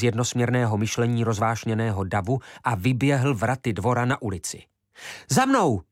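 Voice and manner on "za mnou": high ringing shout to follow; young leader calls the boys to follow him; rallying shout. A narrator's reading. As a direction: call the boys after you, loud. Youth leads boys out.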